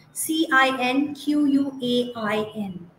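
letters spelled one by one, slowly; spelling it out slowly. Shown as a demonstration. Spelling the word slowly for the class. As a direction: slowly spell cinquain for the teachers. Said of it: "of the word cinquain".

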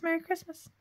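high, sweet cutesy reading. Real, not acted. Crafter reading her card aloud in a high sweet voice. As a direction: read it out like a greeting card.

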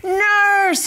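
high, mock yell for the nurse; retold scream. Narrator retells football player screaming for the nurse, high mock yell. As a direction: call out for help, half-acted. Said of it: "came in screaming".

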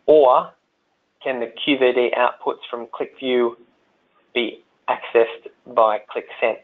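measured read-out with long pauses; slow, deliberate question reading; read slowly. Real, not acted. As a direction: pause between chunks of the question. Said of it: "I'll read it slowly there".

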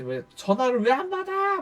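mock angry demand. Former boss complains about the unanswered phone, mock-irate.

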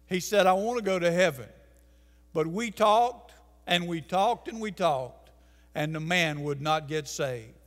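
ordinary delivery

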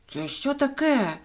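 slow, indignant question; mild anger. A narrator's reading. An angry passer-by hit by a cherry stone, indignant. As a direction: demand it with a touch of outrage. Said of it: "розсердився перехожий".

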